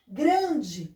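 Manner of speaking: "Grande" with GRAN held out; "GRAN-de", deliberate dictation; strong syllable shown. Shown as a demonstration. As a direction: sound out "Grande", leaning on GRAN. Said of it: "a sílaba mais forte".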